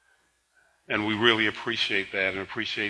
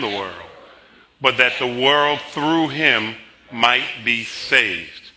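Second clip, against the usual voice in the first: loud, measured reading aloud; scripture recitation; 2 semitones higher, 3 dB louder, slower than usual. Acted. Pastor leading the congregation through John three sixteen, declamatory reading. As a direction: proclaim the verse slowly, phrase by phrase.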